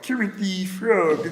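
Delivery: slow puppet-frog attempt; Kermit the Frog. Shown as a demonstration. Trying it after friends, slow Kermit voice. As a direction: drag out a frog impression. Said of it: "See if I can do it".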